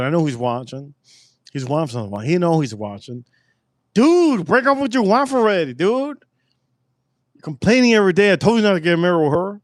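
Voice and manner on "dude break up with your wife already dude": exasperated yell. Real, not acted. Telling his watching friend to leave his wife, high exasperated yell. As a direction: shout it at him like you're done with him.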